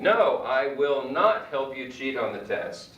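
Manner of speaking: a strong, firm No, I will not; firm refusal. Shown as a demonstration. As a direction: refuse like you mean it. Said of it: "Also refusing".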